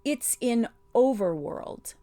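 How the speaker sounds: struggling for breath. A narrator's reading. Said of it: "struggling a little to get his breath".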